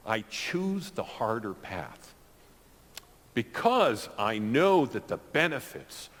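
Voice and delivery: holding back tears while speaking; choking up. Real, not acted. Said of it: "I'm choking up a little bit".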